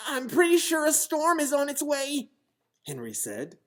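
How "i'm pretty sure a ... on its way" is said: polite little bunny. Acted. Henry warns again.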